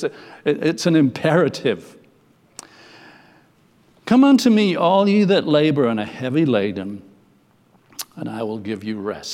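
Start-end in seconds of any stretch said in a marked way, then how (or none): 4.0-9.3 ringing proclamation. Acted. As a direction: proclaim it from the pulpit, then settle. Preacher proclaims the invitation.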